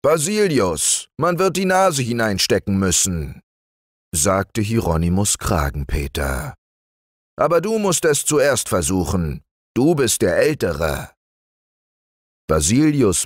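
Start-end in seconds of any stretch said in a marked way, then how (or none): 0.0-11.1 raised, fussy bear voice; Hieronymus the bear. Acted. Hieronymus stuck at the knothole, fussing to Basilius. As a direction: complain the hole is too narrow.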